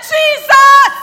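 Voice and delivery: a triumphant yell; exultant shout. Retold or imitated. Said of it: "And I said".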